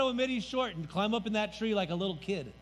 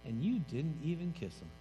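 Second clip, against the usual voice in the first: Jesus rebuking; 8 semitones lower, 6 dB quieter than usual. Acted. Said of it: "And Jesus turned to him and said".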